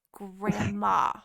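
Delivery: drawn-out, low scolding name-call; exasperated reproach. Retold or imitated. Grandchild hearing grandma waited since Monday, exasperated reproach. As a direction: chide her in a low, disbelieving voice.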